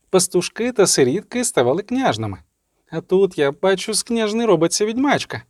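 mildly mocking sorceress; Triss voice. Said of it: "чародійка Тріс говорить".

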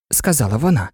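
usual speaking voice

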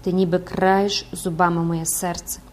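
impassioned priest begging for love; lovesick priest pleading. Acted. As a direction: plead earnestly, swelling as you go. (палке благання закоханого священика)

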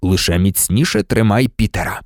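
low, calm instruction. A narrator's reading. Lupin tells Ron to hold the rat, calmly. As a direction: keep it composed and low. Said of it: "спокійно мовив Люпин".

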